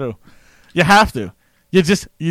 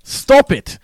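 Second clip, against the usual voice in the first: high, loud repeated scolding; hammed-up frustrated command; exasperated; 11 semitones higher, 6 dB louder, much slower than usual. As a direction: snap yourself out of it, loudly. Scolding self stuck in the accent.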